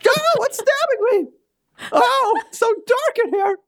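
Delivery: high squeaky toy doll voice. Acted. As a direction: speak as a tiny living doll, panicked. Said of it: "I need, like, a doll voice".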